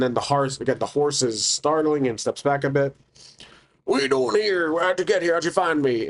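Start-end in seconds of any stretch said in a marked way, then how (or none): 3.8-6.1 high, alarmed questions tumbling out; startled demand. Acted. Hermit startled by the stranger, high alarmed questioning. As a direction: jump at the intruder, alarmed.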